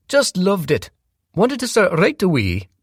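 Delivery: smooth charming stepdad covering something; Ted's round tenor. A narrator's reading. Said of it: "a round tenor with a Welsh accent".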